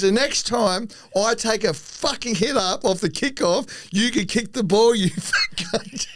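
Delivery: imitating an angry teammate's telling-off; Coops laying into him. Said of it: "Coops is fucking into me".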